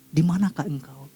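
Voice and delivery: mild gentle ask; cooling, gentle voice. Acted. God calls Adam with a gentle, soothing voice. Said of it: "suara yang memberikan kesejukan".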